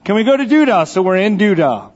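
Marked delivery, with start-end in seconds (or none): 0.0-0.9 lightly voiced little boy, higher pitched; a hint of a child pleading to go; eager toddler. Dad imitating his son asking parents to go, lightly childlike. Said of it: "he would start saying".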